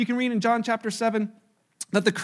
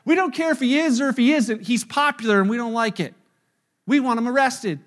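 indignant Pharisees; 2 semitones higher, 4 dB louder than usual. Retold or imitated. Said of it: "the Pharisees are listening".

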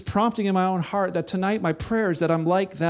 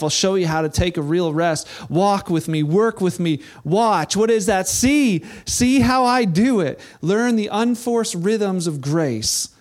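impassioned preaching; 2 semitones higher than usual. Acted. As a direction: preach it like an urgent invitation. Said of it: "he writes it this way".

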